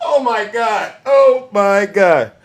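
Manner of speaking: winding down from real laughter, second one drawn out; laughing exclamation. Real, not acted. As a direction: catch yourself after a laughing fit. Recovering from laughing fit.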